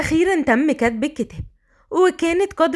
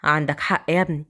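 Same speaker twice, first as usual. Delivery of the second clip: put-on low, cheeky young man; a rowdy brother gawking then told off; teasing brother voice; 8 semitones lower than usual. A narrator's reading. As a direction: lower cheeky male voice. Brothers joking.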